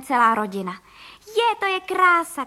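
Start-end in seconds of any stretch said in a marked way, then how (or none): 1.3-2.4 put-on higher, louder, slow delighted cry of a boy; excited shout. A narrator's reading. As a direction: call out in wonder at flying. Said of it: "křičel Vilda". (nadšené zvolání, vyšší a hlasitější)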